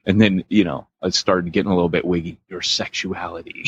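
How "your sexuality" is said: softer meditation murmur; imitated meditative track. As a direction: mimic a meditative recording, hushed for comic effect. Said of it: "it was very meditative".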